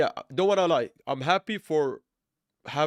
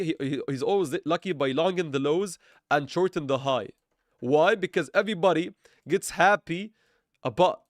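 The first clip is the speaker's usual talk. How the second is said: sarcastic; 3 semitones higher, 3 dB louder than usual. Acted. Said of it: "for being overly sarcastic here".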